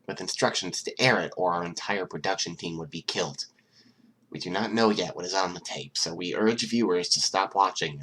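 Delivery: tense, formal newscast delivery; news anchor read. Acted. Terrified anchor warns viewers about the tape, formal news read. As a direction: read it like a frightened anchor on air.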